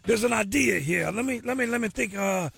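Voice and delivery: lightly put-on Cajun man voice; bad Cajun accent, hammed up. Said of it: "my very bad Cajun man impersonation".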